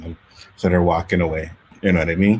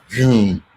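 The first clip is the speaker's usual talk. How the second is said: car vroom; 2 semitones higher, 5 dB louder than usual. Retold or imitated. Imitates the cop car driving by.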